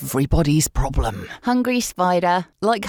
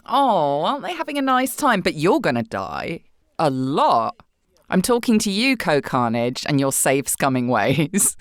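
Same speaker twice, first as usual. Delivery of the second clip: narrator impression; 3 semitones lower than usual. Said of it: "the narrator gives a shit about the animals".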